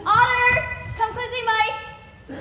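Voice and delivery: high, loud call across the garden. Acted. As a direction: shout for a friend outside. Calling friend from garden.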